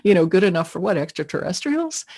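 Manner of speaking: laughing disbelief. Retold or imitated. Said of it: "I did a double take".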